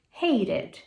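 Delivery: hated with a flap, ending in d; correct pronunciation. Shown as a demonstration. Teacher repeating the correct verb. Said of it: "É hated".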